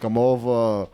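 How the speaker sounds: slow, crude Italian come-on; Italian guy voice. Acted. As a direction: drag the words out like an Italian wise guy. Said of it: "You ever do this voice?".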